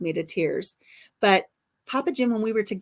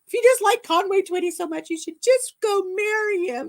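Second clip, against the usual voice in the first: imitating a sulking jealous teen; jealous boyfriend; 11 semitones higher than usual. Jealous boyfriend complaining for days, hammed-up mock sulk. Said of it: "more and more upset with me".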